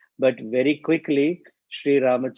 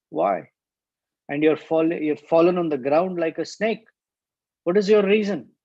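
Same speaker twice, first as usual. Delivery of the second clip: irritated; 4 semitones higher, 4 dB louder than usual. Acted. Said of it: "Then he got irritated and said".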